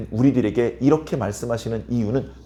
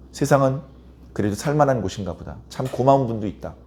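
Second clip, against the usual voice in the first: lower, softer musing to oneself; quietly grateful; 3 semitones lower, 4 dB quieter than usual. Acted. Someone forgiven instead of scolded thinks aloud, acted quiet gratitude. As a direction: voice a touched, forgiven person's thought.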